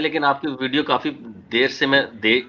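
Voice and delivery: choppy, breaking phone line; buffering stutter. Real, not acted. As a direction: voice cutting out on a call. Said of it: "आपकी आवाज़ जो है cut रही है".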